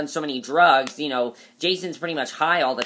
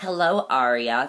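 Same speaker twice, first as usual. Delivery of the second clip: fake fussy, prissy voice; 2 semitones lower than usual. Recapping a show scene, imitating Mona's prissy voice. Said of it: "Mona is being so prissy in this scene".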